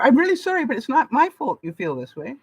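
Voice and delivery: mock a non-apology that shifts blame; fake sorry. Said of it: "That's not an apology".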